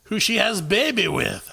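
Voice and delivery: high, slow mock German accent. Finishing the headline in a slow, hammed-up German accent. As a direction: struggle through a put-on German accent. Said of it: "Should I try to do in a German accent".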